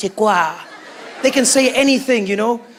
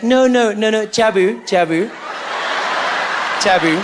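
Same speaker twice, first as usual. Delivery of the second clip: correcting listener. Acted. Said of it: "And we'll be like".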